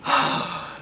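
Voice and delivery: breathy, swooning exhale; dreamy sigh. Real, not acted. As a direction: sigh out in admiration. Swooning over his stare.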